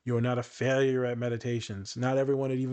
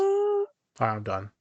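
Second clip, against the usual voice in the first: sassy; 3 dB louder, slower than usual. Acted. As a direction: throw it out with playful sass. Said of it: "I just feel sassy now".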